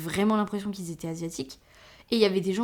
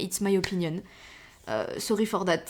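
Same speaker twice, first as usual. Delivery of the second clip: French accent. Real, not acted. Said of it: "Désolée avec mon accent".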